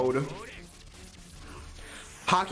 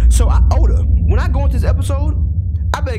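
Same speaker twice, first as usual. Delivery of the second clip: loud ranting shout at the author; yelling at Oda; 7 semitones higher, 13 dB louder, faster than usual. Real, not acted. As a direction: yell it out, fed up with the show.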